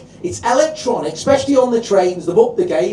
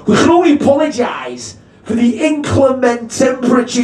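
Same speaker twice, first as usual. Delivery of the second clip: posh tannoy announcer; 5 semitones higher, 3 dB louder than usual. Retold or imitated. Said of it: "he goes".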